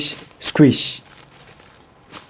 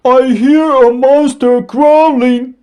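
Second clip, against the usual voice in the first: higher, anxious dragon voice; worried cry; 9 semitones higher, 4 dB louder than usual. A narrator's reading. Dragon telling the squirrel about the monster, scared. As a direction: tell it with fright. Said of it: "cried the dragon".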